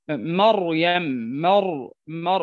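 "مريم، مر، مر" with thick emphatic r; heavy r. Shown as a demonstration. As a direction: hold the heavy r in "مر". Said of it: "فتفخم".

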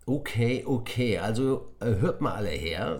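teacher raising his voice; teacher calling a noisy class to attention; loud and clear. Acted. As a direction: call the class to order. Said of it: "sagte Herr Woll laut und deutlich".

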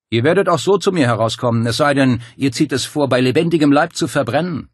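calm menace; menacing Dario. Acted. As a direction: gloat over their choice. Dario's cold threat.

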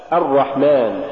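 الرحمن with a dark a leading into a thick R; heavy doubled R. Shown as a demonstration. Tajweed teacher giving the example, heavy doubled R. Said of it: "والصواب".

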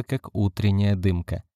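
usual speaking voice

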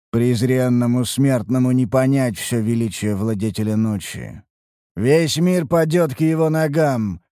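put-on eerie voice of a possessed boy; otherworldly voice. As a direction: speak like something from beyond. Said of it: "мальчик потусторонним голосом".

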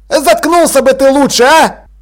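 loud, high irritated shout. A narrator's reading. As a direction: tell him off at full voice. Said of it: "крикнул Чидер".

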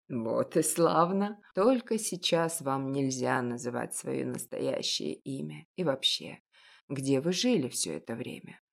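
put-on an elderly shopkeeper, knowing and gentle; a hint of a kindly old baker; old confectioner. Old confectioner questions Masha.

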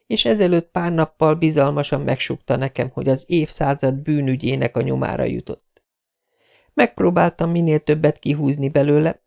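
kissé magasabbra vett női szereplőhang; meséld el összeszedetten, enyhén lányos hangon; Jessica, az újságírónő. Acted. Narrator voices the girl telling her story. (magyarázó, visszafogottan megszemélyesített lány)

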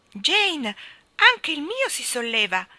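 high, loud, excited cry; boy's shout. Acted. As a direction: shout it as you are lifted off. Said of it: "gridò Michael mentre la canna".

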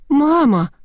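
high shrieking squeal. A narrator's reading. Girl squeals at the sight of dollars. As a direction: squeal the word out in shock. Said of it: "взвизгнула Лидочка".

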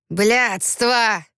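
bitter muttered swear, voice changed; swearing curse. Acted. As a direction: spit out the curse. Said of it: "выругался Виктор". (злое ругательство)

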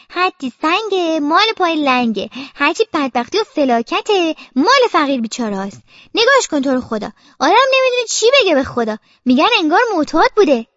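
lightly voiced gossiping neighbour; lamenting neighbour.

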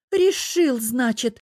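very high, loud accusing squeal; high girlish shriek, easing on second word; screeching. A narrator's reading. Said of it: "пуще прежнего заверещала зараза".

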